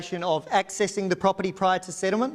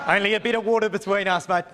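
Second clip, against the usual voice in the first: laughing. Real, not acted. Joking after accent mix-up.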